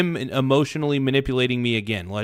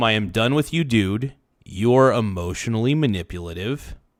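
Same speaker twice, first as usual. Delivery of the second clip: normal talking voice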